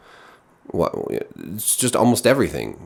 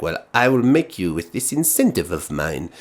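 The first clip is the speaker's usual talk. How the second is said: put-on French accent. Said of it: "or I guess she's French".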